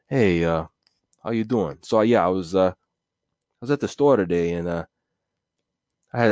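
lightly voiced relaxed mobster, slowed a little; a hint of a chilled gangster keeping it low-key; understated, unbothered wise guy; laid-back mobster. Shown as a demonstration. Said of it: "he's talking that way, nice, low, and quiet".

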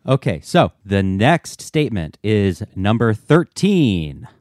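slow, drawn-out announcer read; game show host. Real, not acted. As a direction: present it like a quiz show host. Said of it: "You said that like a game show host".

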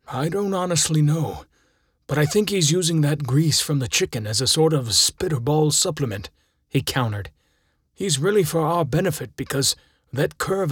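a hint of an unsure helper explaining; assistant coach. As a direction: assistant coach answering the kid's question. Assistant coach figure voiced.

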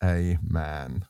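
slow, deliberate reading in God's voice; measured dramatic Bible reading; solemn scripture reading. Acted. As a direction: read it slowly, weighting each phrase. Reads scripture aloud as God.

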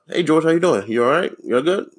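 imitated checking-in manager. Lady managers checking on George, mock-concerned perkiness. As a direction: mimic an over-attentive boss with rising questions. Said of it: "they be like".

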